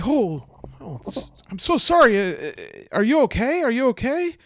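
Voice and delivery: high, loud, hurried apology; flustered apology. Acted. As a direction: stammer out an anxious, high apology. Bumped into her, apologising.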